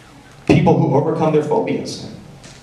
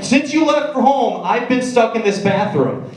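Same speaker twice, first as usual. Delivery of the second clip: higher whiny complaint; 9 semitones higher than usual. Retold or imitated. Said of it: "I'm like".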